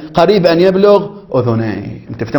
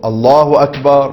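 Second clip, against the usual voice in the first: تكبير ممدود; slower than usual. Shown as a demonstration. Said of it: "أو".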